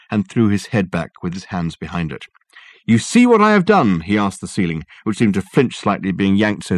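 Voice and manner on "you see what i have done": high, loud triumphant question. Acted. Dirk addressing the ceiling, triumphant loud question. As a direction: crow to the ceiling.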